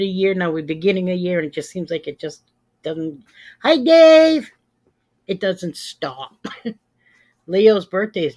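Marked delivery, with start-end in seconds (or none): 3.6-4.5 loud, high-pitched greeting shout; calling out hello. Real, not acted. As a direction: sing out a big hello to someone just arriving. Greeting a viewer who arrives.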